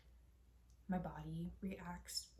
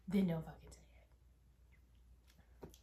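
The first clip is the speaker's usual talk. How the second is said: sharp angry outburst; 5 dB louder, faster than usual. Real, not acted. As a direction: snap it out in anger. Angry retort at her mother.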